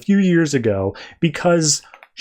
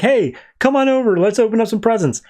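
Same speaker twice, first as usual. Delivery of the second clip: high mock-eager invitation; retold eager kid; 7 semitones higher than usual. Cindy invites Harley to the presents, eager. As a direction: imitate a child calling a playmate over.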